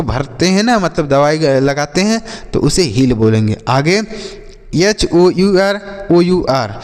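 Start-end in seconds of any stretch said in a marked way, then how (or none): 4.8-6.7 slow spelling out. Shown as a demonstration. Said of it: "इसे हम पढ़ेंगे आवर".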